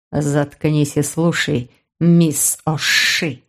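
low, very slow hissed order; hissing man. Acted. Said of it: "прошипел мужчина".

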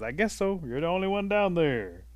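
high, loud shout; calling down. Acted. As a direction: holler back down from the treetop. Possum calls back down.

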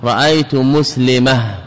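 مسلمة ends in h; pausal ha ending. Shown as a demonstration. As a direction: say مسلمة as muslimah. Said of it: "والمشهور في اللغة الفصحى".

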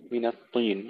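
الطين with a thick emphatic T; heavy ta with kasra. Shown as a demonstration. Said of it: "وترقيق النون قبلها". (تفخيم الطاء المكسورة)

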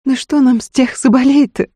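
high-pitched, irritated retort; angered. A narrator's reading. Wife dismisses Гришка's offer of sables, angered. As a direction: throw the question back crossly. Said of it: "рассердилась Устинья".

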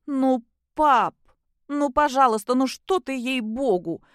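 high, pleading whine to dad; pitiful whining. Acted. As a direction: beg like a whining child. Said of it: "вдруг жалко заскулила Кристина".

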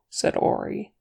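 ordinary delivery

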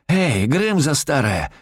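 high, slow, swooping call; shouting. A narrator's reading. Robber shouts at old hostage, calling rudely. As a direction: holler rudely to get her attention. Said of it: "кричу".

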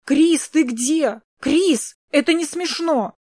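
worried scolding call; calling from afar. A narrator's reading. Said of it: "раздался знакомый голос где-то вдалеке".

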